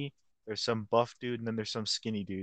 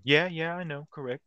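eager agreeing; 5 semitones higher, 4 dB louder than usual. Retold or imitated. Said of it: "And he's like".

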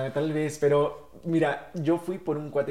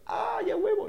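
excited yes. Retold or imitated. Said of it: "Y yo".

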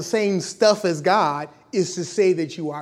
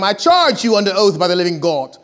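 put-on loud high priest with an English accent; stagey English-accented interrogation; 3 semitones higher, 8 dB louder than usual. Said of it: "the high priest has an English accent".

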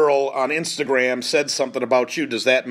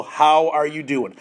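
slow, gentle how are you; gentle check-in; slower than usual. Shown as a demonstration. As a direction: ask it slowly, like you really want to know. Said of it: "just say".

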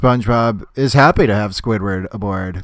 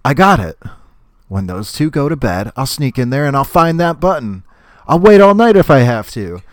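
scheming Squidward; 4 semitones higher, 5 dB louder than usual. Retold or imitated. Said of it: "thinks Squidward".

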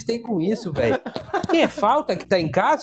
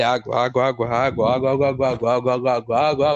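very low, monotone repeated call; water seller; 8 semitones lower than usual. Retold or imitated. Water vendor at the cathedral, low droning call. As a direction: drone the word like a bored hawker's loop. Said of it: "substituía as palavras por água".

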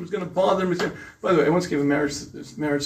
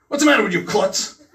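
annoyed scolding wife; 4 semitones higher, 3 dB louder than usual. Retold or imitated. Married wife scolding husband.

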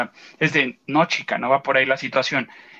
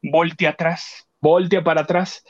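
inner voice. Retold or imitated. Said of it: "mi chícharo me dijo".

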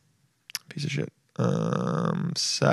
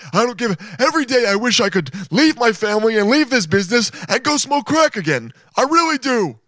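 much higher, mock-earnest pitchman voice; pillow guy's secret confession; 10 semitones higher than usual. Host imagines what the pillow guy really wanted to say, hammed up. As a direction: overeager ad voice spilling a confession. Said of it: "what he really wanted to say is like".

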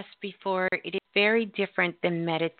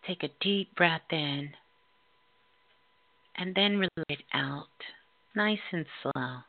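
guided meditation. Acted. Leads a spirit class meditation.

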